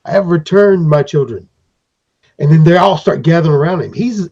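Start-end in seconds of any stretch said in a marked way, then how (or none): 0.1-1.5 high, proud little master voice; lightly voiced creature king announcing his return; returning leader. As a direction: greet your children grandly. Periwinkle returns to his people.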